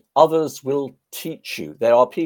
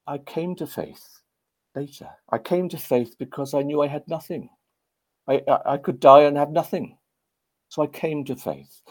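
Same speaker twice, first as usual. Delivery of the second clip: Trevor Bray; 4 semitones higher than usual. Retold or imitated. Veteran tells how he found faith, imitated Welsh accent. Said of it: "he said in his Welsh accent".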